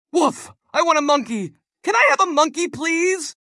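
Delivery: put-on high eager child voice; bouncy boy begging for a treat; excited little boy. Boy's voice in story.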